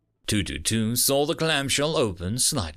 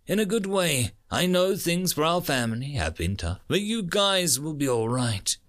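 earnest marine's last words, lifted in pitch; heartfelt farewell message; 3 semitones higher than usual. Acted. Marine records a farewell to his family, heartfelt. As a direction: reassure the family in a recorded goodbye.

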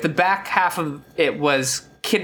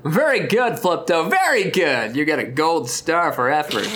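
patronizing. Acted. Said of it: "the most patronizing asshole".

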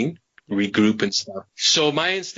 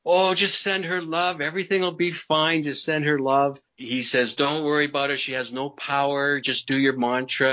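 lightly jovial retold reassurance. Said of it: "he's all jovial".

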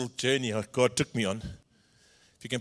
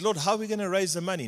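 anxious rushed plea; 6 semitones higher, faster than usual. Retold or imitated. Pastor pleads with God.

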